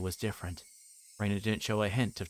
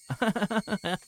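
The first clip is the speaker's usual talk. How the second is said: a sudden high creepy giggle; eerie high giggle; 12 semitones higher, 3 dB louder than usual. Acted. Reina laughing at Keiichi as he flees, eerie giggle. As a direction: giggle like a girl who has cornered her prey.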